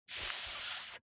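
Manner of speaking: sharp whispered shush; angry shushing hiss. Acted. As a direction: hiss her quiet, annoyed. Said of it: "прошипела на неё я с разгневанным видом".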